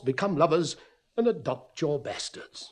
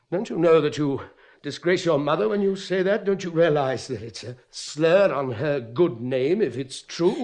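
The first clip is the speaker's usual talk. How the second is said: raised, accusing voice, pushing the words; angry reproach; 3 semitones higher, 5 dB louder than usual. Acted. Father scolds daughter for shaming her mother, raised and accusing.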